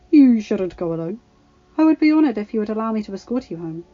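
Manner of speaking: smooth offer. Acted. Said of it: "he said smoothly".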